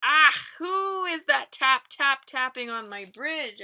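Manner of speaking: loud, high bellowing troll; troll roaring up at tiny hooves. Acted. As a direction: roar it out from under the bridge. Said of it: "asks Troll".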